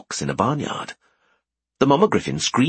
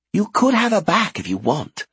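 muffled voice; 10 semitones higher than usual. Acted. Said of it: "came Furcher's muffled voice".

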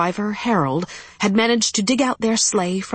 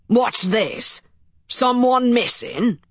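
thick Irish brogue, questioning; Irish accent; 4 semitones higher, slower than usual. Acted. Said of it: "in as thick an Irish accent as Farrell's".

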